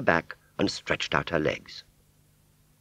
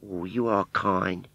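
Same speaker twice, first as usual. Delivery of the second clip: sincere thanks; 4 semitones higher, slower than usual. Acted. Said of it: "nice, sincere smile".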